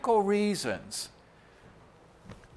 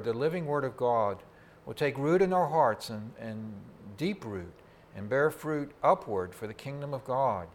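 lower, softer praying voice; prayer; 5 semitones lower, 6 dB quieter than usual. Real, not acted. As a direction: pray humbly and quietly over the congregation. Leads the congregation in prayer.

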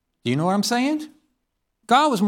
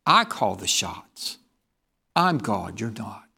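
God's stern voice; 6 semitones lower than usual. Acted. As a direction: speak as God putting man in his place. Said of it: "God says".

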